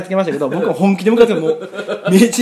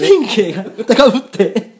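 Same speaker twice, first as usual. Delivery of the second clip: high, loud, laughing excitement; worked up; 4 semitones higher, 5 dB louder, slower than usual. Real, not acted. Explaining his stomachache after the wild boxing fantasy, worked up and laughing. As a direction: laugh it out, overexcited. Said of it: "興奮して、なんかこれ".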